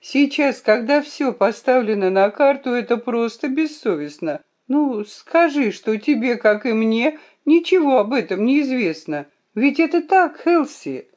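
high-pitched, upset pleading; trembling voice. A narrator's reading. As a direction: appeal to him, mildly tremulous. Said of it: "сказала она дрожащим голосом".

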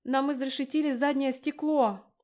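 high and loud in alarm; loud panicked report; alarmed shout. A narrator's reading. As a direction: shout the news over the chaos.

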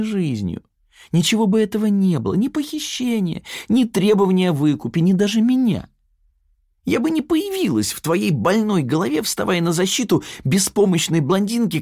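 lifted pitch, smug inner double; Yana's mocking alter-ego voice. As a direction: sneer at Sonya from inside her head.

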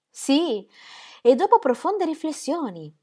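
più alta e più forte, di slancio; agitata. Acted. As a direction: lo dice d'un fiato, agitata. The speaker recites, then repeats. (dopo profonde riflessioni detto alto e concitato)

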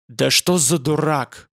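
slow, furious shout of contempt; furious yell. Acted. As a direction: spit out the insult in rage. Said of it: "заорал Радша в бешенстве".

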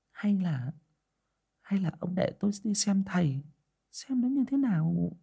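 high, soft pleading wife voice; hesitant, softly asking; timid wife's plea. A narrator's reading. Wife timidly asks her husband to see a fortune teller, soft and pleading. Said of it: "Bà Hậu nghe chồng mắng như vậy thì đề nghị".

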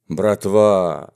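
drawn-out call to the gang; tense, mysterious merriment. Acted. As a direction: hail them with strained glee. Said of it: "с напряжённым, загадочным весельем крикнул он". (с напряжённым загадочным весельем)

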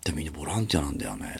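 quick hushed whisper; whispered aside. Retold or imitated. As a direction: murmur it as a private marvel. Whispered retelling of the fact. (ささやき声で)

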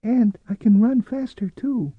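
put-on thin, high boyish voice; excited small boy calling out; eager boast. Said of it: "Miles' thin voice called eagerly".

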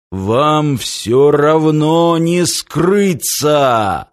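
slow, ominous villain threat; a lightly voiced sinister giant; booming echoing villain monologue. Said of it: "гремел над сводами зала зловещий голос".

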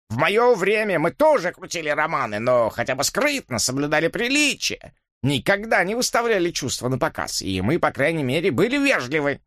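put-on moralizing old gent; indignant old man. Dipps lectures. (чопорный старик поучает)

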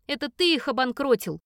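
loud, hateful retort; spat out. Acted. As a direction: spit the words at him. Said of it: "Выплёвываю в ненавистное лицо". (выплюнуто с ненавистью)

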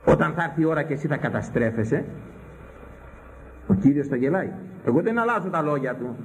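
usual speaking voice

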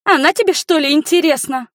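very high, loud jealous shriek; jealous girl shrieking about her rival; shrieked nastily. A narrator's reading. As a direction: screech it out spitefully. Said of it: "взвизгнула противно Рика".

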